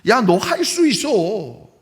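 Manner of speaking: slow, drawn-out encouraging voice; a slow, hammed-up you-can-do-it; God's pep talk. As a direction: say it like a coach cheering on. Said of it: "하나님이 뭐라고 대답하시는지".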